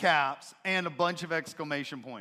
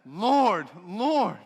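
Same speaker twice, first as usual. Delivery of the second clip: higher, louder, strained "Lord, Lord"; strained cry; 4 semitones higher, 9 dB louder than usual. Acted. Pleading figure at judgment straining to call Jesus Lord. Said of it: "you can hear the strain in his voice".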